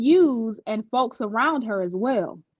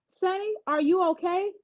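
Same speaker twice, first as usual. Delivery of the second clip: concerned; 7 semitones higher, 4 dB quieter than usual. A narrator's reading. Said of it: "I asked with concern in my voice".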